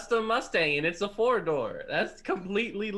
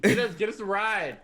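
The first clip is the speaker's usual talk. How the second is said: mildly raised, insistent call; unnecessary yelling; 6 dB louder than usual. Acted. Jono yelling to his friend for a ride, unnecessary yelling. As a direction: holler it over a short distance. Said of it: "Jono's yelling unnecessarily".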